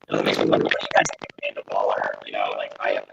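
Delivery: crunchy glitching robotic mic; garbled robot-like audio. Real, not acted. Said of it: "you turned into a robot just there".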